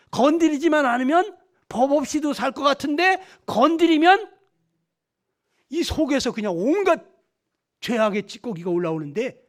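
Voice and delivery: forceful preaching. Real, not acted. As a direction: build the point firmly for the congregation. (힘주어 강조하며 설교하듯)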